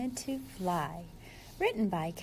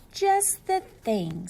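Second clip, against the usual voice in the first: pleased; 5 dB louder, slower than usual. Acted. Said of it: "said Flip Flop".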